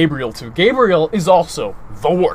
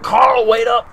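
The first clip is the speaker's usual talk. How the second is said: higher, louder call to wait; calling after; 6 semitones higher, 4 dB louder, slower than usual. Retold or imitated. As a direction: call after the boy ahead. Calling after son walking ahead.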